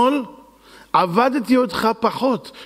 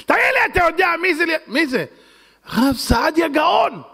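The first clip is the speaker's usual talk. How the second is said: excited shout; 10 semitones higher than usual. Acted. Servant reveals the guest is Rabbi Saadia Gaon, excited shout.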